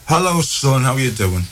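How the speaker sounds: a cheery mum picking up the phone; mum's voice. Retold or imitated.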